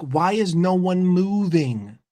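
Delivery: slow, drawn-out exasperation; imitated mild anger. Player asking teammates why nobody moves, mildly angry. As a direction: act out a fed-up player, stretching the words. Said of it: "he's getting angry because he's like".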